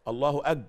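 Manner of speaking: "أج" said as "ag" after "الله"; wrong g sound. Shown as a demonstration. Teacher showing the mistake, hard g ending "أج". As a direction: cut the takbir at a voiced hard g in "أج". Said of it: "غلط".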